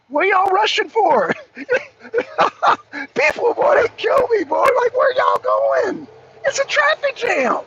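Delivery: high, loud yell at traffic; exasperated yelling. Real, not acted. Driver yelling at other cars in a jam, exasperated. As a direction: holler in disbelief, pitch way up.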